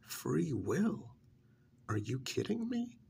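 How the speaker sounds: incredulous scoff. Acted. Vampire scoffing at a pet's wish, incredulous. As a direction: question it as if it's absurd.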